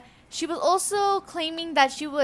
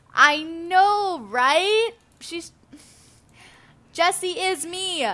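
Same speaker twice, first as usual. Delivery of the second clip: higher, exasperated protest; indignant; 5 semitones higher, 5 dB louder, much slower than usual. Real, not acted. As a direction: protest in disbelief, pitched up. Indignant at being impersonated.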